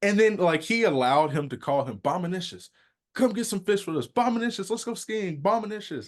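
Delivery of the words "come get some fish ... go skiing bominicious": high playful calling; sing-song it like inviting a buddy; mock friend calling out the nickname. Friend voiced calling him.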